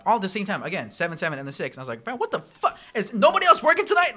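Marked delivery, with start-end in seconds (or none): 2.0-4.1 higher, louder laughing outburst; half-laughing cry of disbelief; imitating an overwhelmed server; mock exasperated yell.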